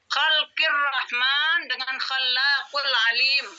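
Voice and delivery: Khalqir Rahman read slowly with the kh from the throat; slow model reading. Shown as a demonstration. Teacher reading the phrase out slowly to students. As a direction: read the phrase aloud for the class to copy. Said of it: "Apa bedanya khalqi dengan khalaqu?".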